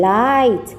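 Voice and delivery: "light" with a clean L, the tongue not curled; plain L, no curl. Shown as a demonstration. Teacher contrasting "light" with "right" for kids, plain L. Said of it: "คำนี้ออกเสียงแบบปกตินะคะ ไม่ต้องหอลิ้น".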